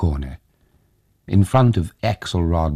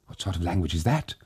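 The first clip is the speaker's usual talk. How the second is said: terrified whisper; 6 dB quieter, faster than usual. Acted. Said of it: "whispered the daughter-in-law, terrified".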